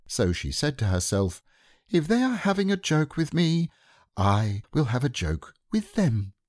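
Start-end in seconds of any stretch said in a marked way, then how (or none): 1.9-6.3 lightly higher motherly kangaroo voice; a playful mother kangaroo, lightly voiced; Kanga's voice.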